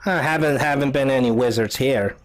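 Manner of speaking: lightly voiced old woman; old lady. Old lady answers travelers seeking a wizard, old lady voice. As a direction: answer as an old hut dweller. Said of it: "this old lady comes out".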